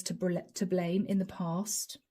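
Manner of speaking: stuttering on a word. Real, not acted. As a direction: trip over the word. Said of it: "And I'm stuttering".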